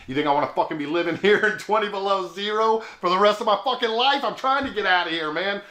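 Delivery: exasperated retort, rising in pitch; mock-outraged comeback, lifting on the swear; indignant. Stranded driver answering the fair employee, indignant.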